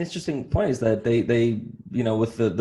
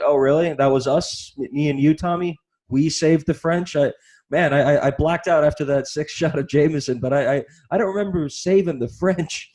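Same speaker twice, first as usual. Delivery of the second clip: mock incredulous drunk; 3 semitones higher, 4 dB louder than usual. Mocking Americans to a friend, loud sarcastic disbelief. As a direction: play a baffled barfly asking his buddy. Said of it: "It's like".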